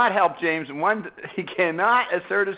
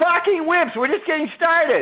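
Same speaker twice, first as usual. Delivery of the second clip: very high-pitched, shrill hollering yell; 9 semitones higher than usual. In a debate round, objecting to declaring the round for Bob, yelling. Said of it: "I'm yelling".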